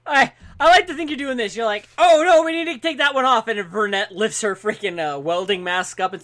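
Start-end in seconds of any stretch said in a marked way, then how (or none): 2.0-3.5 high, louder mimicry of a fretting worker; mock fussing. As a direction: fuss over it in a raised, put-on voice. Mimicking fussing crewmate at work.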